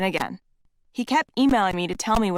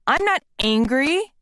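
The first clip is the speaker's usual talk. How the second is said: higher, slow insistence on not; angry denial; 6 semitones higher, 3 dB louder, slower than usual. Retold or imitated. To her friend, an angry denial, higher pitched. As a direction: deny it through clenched anger. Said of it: "while throwing my journal".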